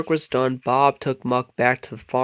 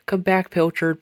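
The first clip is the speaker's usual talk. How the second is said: high loud call after the cat; 6 semitones higher, 4 dB louder than usual. A narrator's reading. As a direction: call her back loudly. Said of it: "Bob called".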